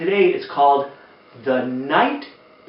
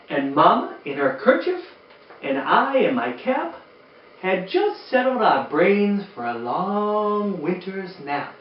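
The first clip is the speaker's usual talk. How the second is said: gentle read-aloud storytelling voice; lilting rhymed read-aloud; storybook reading. Acted. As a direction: read it like bedtime to a room of kids.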